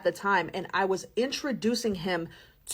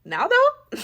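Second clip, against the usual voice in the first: mock demanding; 5 dB louder than usual. Teasing partner about phone.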